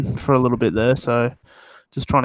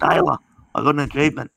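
lightly imitated voice of a friend; a hint of a put-on voice; friend's voice impression; 2 semitones higher, faster than usual. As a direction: mimic a mate's midnight announcement. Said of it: "that's how he fucking sounds".

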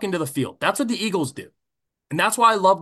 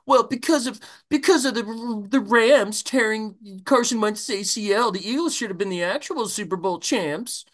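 a lightly voiced, whiny excuse-making fan, higher at the start; mock whiny fan; 3 semitones higher than usual. Fan mocking rivals who blame an injury, lightly mock whiny. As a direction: mimic a sore loser making excuses, half-mocking. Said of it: "I wouldn't spend the next year being like".

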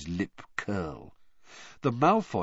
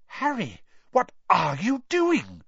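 higher, heard as if far away; distant voice; 9 semitones higher, 3 dB louder than usual. A narrator's reading. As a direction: call from far off. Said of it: "from a long way off".

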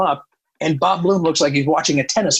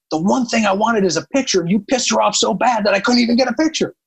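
whiny Bob; 7 semitones higher than usual. Retold or imitated. Bob complaining after the scene.

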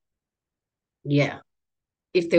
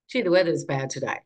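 offhand small-talk tone, lightly imitated; casual tone. Doctor's breezy tone mimicked by patient, lightly casual. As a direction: toss it off like chit-chat. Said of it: "they say it in, in that tone".

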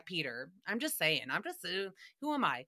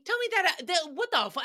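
incredulous outburst; 8 semitones higher, faster than usual. Real, not acted. Mock outrage at being copied.

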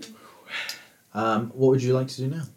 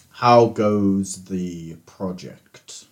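genie voice; 4 semitones lower, much slower than usual. Acted. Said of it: "the genie is like".

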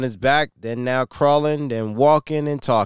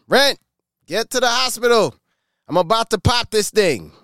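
high, hurried mock panic; high-pitched imitation of an urgent wife in labour; 10 semitones higher than usual. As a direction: squeal it out like she's about to give birth. Wife in labour urging to hospital.

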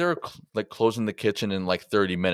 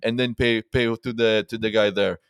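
louder, imitating an annoyed old manager; irritated manager; 3 semitones higher, 5 dB louder than usual. Owner ordering the group to go pay at the front, mock annoyed and louder. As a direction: bark the orders like a fed-up owner. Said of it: "He got really into it".

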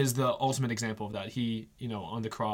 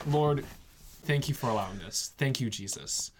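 peaceful prayer; 2 semitones lower than usual. Retold or imitated. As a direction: pray it gently, at peace despite the pain. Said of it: "he was just so at peace".

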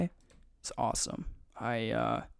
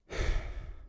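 breathless sigh. Real, not acted. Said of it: "I do not know how to breathe right now".

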